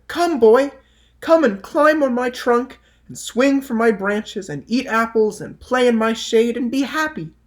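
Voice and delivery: put-on high, loud eager tree inviting the boy; the loving tree. A narrator's reading. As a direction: call the boy up joyfully, voice lifted high. Tree voiced higher and brighter.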